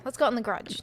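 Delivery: "garage" clipped to one syllable, gradge; casual demo, "garage" as gradge; quick casual garage. Shown as a demonstration. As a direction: toss it off softly, swallowing the first vowel of "garage". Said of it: "Like you say it so fast".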